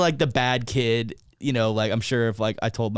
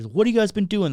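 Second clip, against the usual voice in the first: high mock interrogation; mom questioning; 8 semitones higher, 4 dB louder than usual. Mom quizzing the boys before police, mock-stern. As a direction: act out a pointed question.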